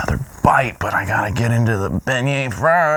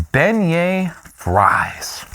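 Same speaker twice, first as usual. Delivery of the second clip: slow, reverent whisper; 5 semitones higher, much slower than usual. Acted. Revealing the dessert to viewers, slow hushed whisper. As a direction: unveil it like a treasure, slowly and hushed.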